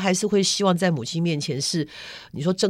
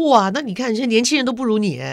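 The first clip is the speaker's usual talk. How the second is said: bright, higher, louder flattering wow; admiring praise; 5 semitones higher, 3 dB louder than usual. Retold or imitated. Daughter retelling how she flatters her mother, admiring. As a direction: gush over her like a fan.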